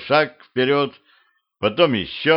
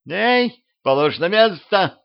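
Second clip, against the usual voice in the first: high, panicked squawk; frightened yelling; 10 semitones higher, slower than usual. A narrator's reading. Blonde head being pulled from the wall, frightened yelling. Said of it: "испуганно орала голова".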